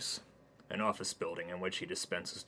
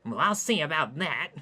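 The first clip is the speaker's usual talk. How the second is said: prim huffy man; 9 semitones higher, 11 dB louder than usual. Acted. Hayden huffs at junkies.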